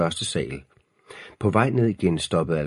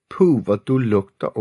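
mild squeal, high and louder at first; 5 semitones higher, 5 dB louder than usual. A narrator's reading. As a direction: squeal lightly in disgust. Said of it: "hvinede Freja". (let hvinende lillesøster)

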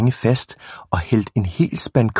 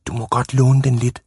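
put-on meek little boys; 4 semitones higher than usual. A narrator's reading. Small boys yield to bully.

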